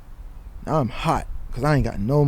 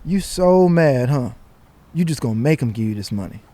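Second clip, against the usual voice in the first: dad's teasing voice; 4 semitones higher than usual. Retold or imitated. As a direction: tease him like a knowing father. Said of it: "It's my dad's voice".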